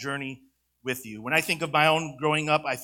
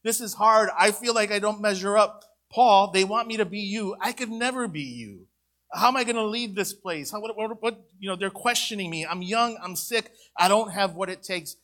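put-on higher, pleading voice of a doubting young man; struggling Timothy; 5 semitones higher than usual. Pastor voicing young Timothy's doubts to the church, mildly pleading. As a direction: voice his self-doubt, a touch anxious. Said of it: "He was saying".

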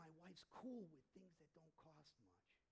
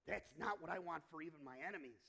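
ordinary delivery

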